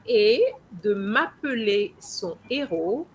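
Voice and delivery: et de m'appeler son héros with the sounds run together; teacher models the liaison smoothly; demo of liaison. Shown as a demonstration. Teacher reading the line to her French student, flowing. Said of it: "that is compulsory liaison".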